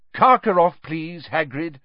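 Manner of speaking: sharp command, high on the name; sharply spoken, high then easing; Dumbledore. A narrator's reading. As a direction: give a sharp, urgent order. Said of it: "said Dumbledore sharply".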